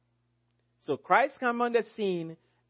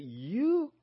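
higher-pitched, stern rebuke in a quoted warning; 5 semitones higher than usual. Retold or imitated. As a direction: deliver a reported accusation sternly, pitched up. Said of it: "He warned shepherds sternly and said".

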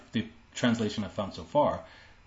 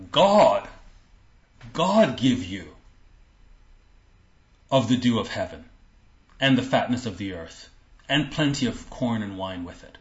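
ringing blessing; proclaimed blessing; 4 dB louder than usual. Acted. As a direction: proclaim it like a patriarch. Reading blessing over Jacob.

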